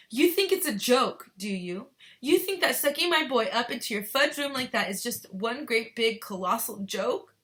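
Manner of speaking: high, loud accusation winding down slightly; angry tirade. A narrator's reading. Mother berating Wonka over her boy, angry. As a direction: berate him, loud and incredulous.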